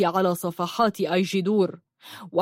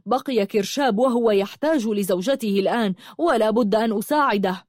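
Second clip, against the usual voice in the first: slightly raised, declaring voice; lightly projected, firm announcement. Acted. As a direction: declare it so everyone can hear. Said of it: "وقال بصوت عال مضاهيا صوته وليسمع الجميع".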